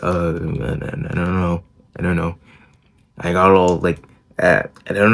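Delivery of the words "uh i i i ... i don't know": softer, stammering mumble. Retold or imitated. Boy stammering back at his angry mom, soft and hesitant. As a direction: retell a scared kid stuttering, softer. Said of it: "I was like".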